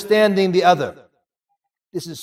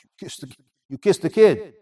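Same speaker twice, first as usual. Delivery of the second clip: shocked question. Retold or imitated. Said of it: "The guy was shocked".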